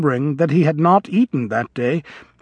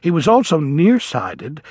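ordinary delivery

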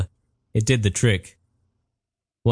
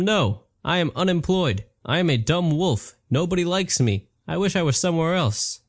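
upset wolf; 5 semitones higher than usual. Acted. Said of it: "I was upset".

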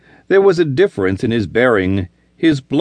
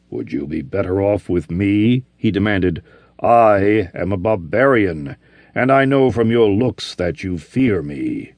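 gruff barbarian; 3 semitones lower than usual. Acted. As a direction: speak plainly, puzzled. Barbarian questioning Olivia.

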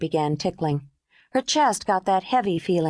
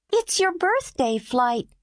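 put-on little girl, slow; 9 semitones higher, slower than usual. A narrator's reading. Mimi answers the woman.

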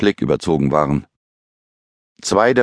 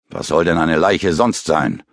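growling. Acted. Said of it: "knurrte Utz ungehalten".

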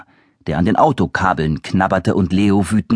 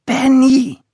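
calling out; 4 dB louder than usual. Acted. Boy calling for lost pet.

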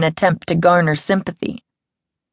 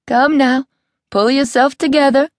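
a crisp, higher and firm "come now"; brisk; 8 semitones higher than usual. A narrator's reading. Angel tells Rosabelle to stop fussing, in a brisk higher voice. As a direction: sister snapping Rosabelle out of it, briskly. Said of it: "Angel's brisk tone".

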